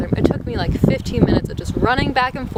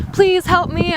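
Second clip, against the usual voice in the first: high, desperate mock plea; retold freaking out; 8 semitones higher, 4 dB louder than usual. Traveler begging two janitors to help, desperate. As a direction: beg in a much higher pitch. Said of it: "I was just freaking out".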